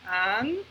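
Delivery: "anti-code" divided as an, ti, code; syllable by syllable. Shown as a demonstration. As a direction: clear gaps inside "anti-code". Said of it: "tenemos que dividirla".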